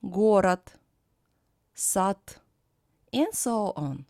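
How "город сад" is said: "город, сад" ending in t; final Д as Т. Shown as a demonstration. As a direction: model город as GO-rat and сад as sat. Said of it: "is pronounced as т".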